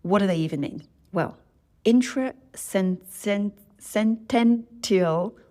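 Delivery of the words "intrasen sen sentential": slow, halting syllable-by-syllable attempt; struggling to get a long word out; stumbling over a word. Real, not acted. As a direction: trip over the term and sound it out slowly, higher and stretched. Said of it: "I can't say that word".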